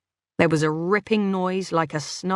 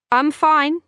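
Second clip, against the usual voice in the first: tense; 9 semitones higher, 6 dB louder than usual. A narrator's reading. Narrator tense, hiding struggle.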